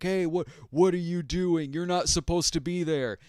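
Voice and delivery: a touch of a gruff villain on the radio. Retold or imitated.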